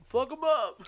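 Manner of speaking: high, loud imitation of a drunk fan; drunken heckler yell. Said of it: "very drunkenly, had to yell".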